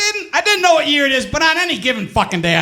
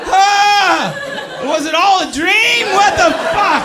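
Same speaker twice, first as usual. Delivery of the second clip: mock crying; 12 semitones higher, slower than usual. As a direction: pretend to break down in tears. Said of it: "Like I was gonna cry".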